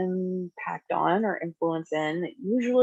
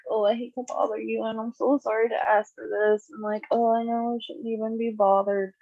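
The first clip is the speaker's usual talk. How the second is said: mock timid apologizing, a little higher; hand-wringing apology; 4 semitones higher than usual. Teacher mocking a timid employee who asks too apologetically, lightly higher. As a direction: play the anxious over-apologizer. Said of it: "wringing your hands and like".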